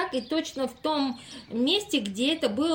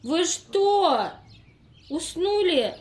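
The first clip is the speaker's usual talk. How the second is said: raised voice, calling him back to attention; loud wake-up call; 4 semitones higher, 4 dB louder than usual. Acted. Investigator loudly rousing the dozing tramp, raised voice. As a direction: snap him out of his daze, loudly.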